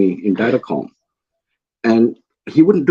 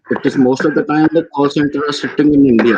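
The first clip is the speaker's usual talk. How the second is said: Indian accent; 4 semitones higher than usual. Shown as a demonstration. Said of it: "I can do the proper Indian accent".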